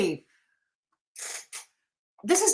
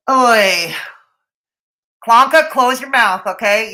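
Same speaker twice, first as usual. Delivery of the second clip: loud call-out; 6 dB louder than usual. Real, not acted. Shouting at chat member.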